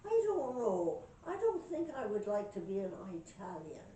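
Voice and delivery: lightly acted Irish pub talker; Irish accent. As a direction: muse aloud in an Irish accent. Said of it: "I got me an Irish accent".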